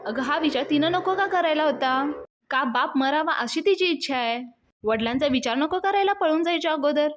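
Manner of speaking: father's angry outburst at his daughter. Retold or imitated. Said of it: "अजून चिडतात".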